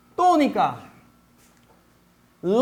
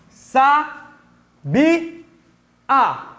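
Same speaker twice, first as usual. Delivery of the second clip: "sa, bi, a" split by clear pauses; each syllable of "sa, bi, a" on its own; syllable division; much slower than usual. Shown as a demonstration. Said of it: "vamos fazer a divisão".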